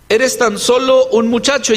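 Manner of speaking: mildly dismissive put-down; a touch of scorn, understated; contemptuous. Acted. King looks down on the little shepherd, mildly contemptuous. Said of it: "aquí hay un tono despectivo".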